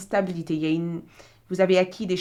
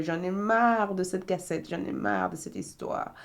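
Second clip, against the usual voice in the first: put-on fed up young woman; 2 semitones higher than usual. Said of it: "crier à l'aide en disant".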